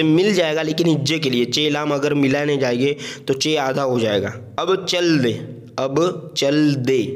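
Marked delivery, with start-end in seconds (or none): 5.8-7.0 both words stretched slowly; slow teacher's repeat; slow model reading. Shown as a demonstration. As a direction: say it slowly so learners follow. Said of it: "रवा से हमें इसको पढ़ना है".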